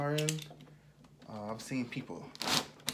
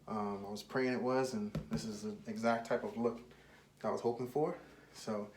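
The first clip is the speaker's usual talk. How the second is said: slightly winded while talking; out of breath; 3 semitones lower than usual. Real, not acted. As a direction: talk a bit out of breath. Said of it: "I'm a little out of breath".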